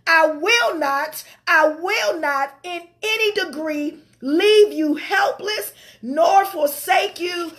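slow, drawn-out preaching cry; fervent scripture reading. Acted. Preacher to congregation, slow fervent preaching. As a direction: plead each promise out slowly from the pulpit.

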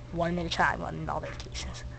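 whispered, no voice; whispering. Pretend. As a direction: breathe the words out as a whisper. Repeats boarding rule.

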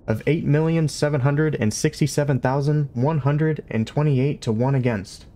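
cheerful onboard computer chiming in with a number; chirpy ship computer. Acted. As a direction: chirp the odds out like an eager machine. Ship computer Eddie cuts in.

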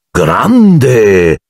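a loud, thrilled cry; exclaiming. A narrator's reading. Fred and George cheering about Nocturne Alley, loud and thrilled. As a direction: burst out in delight. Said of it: "esclamarono Fred e George all'unisono".

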